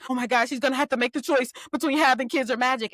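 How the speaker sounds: a hint of mock hysteria, quick; light sarcastic drama-queen voice, rushed; mild mocking overreaction, hurried; mock dramatic panic. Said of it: "everybody being like".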